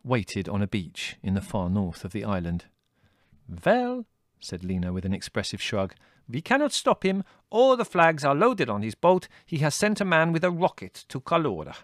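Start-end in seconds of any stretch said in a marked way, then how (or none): 3.7-11.8 put-on high, accented Greek lady, matter-of-fact; a lively foreign lady explaining the plan; Lena's voice. A narrator's reading. Lena, Greek lady, confiding news.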